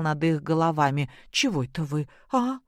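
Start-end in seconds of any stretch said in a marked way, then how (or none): 1.3-2.6 high, anxious mother-in-law pressing for answers; worried, urgent questioning; startled older woman, voice raised high with worry; alarmed. Acted. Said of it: "голос Любови Сергеевны встревоженно зазвучал".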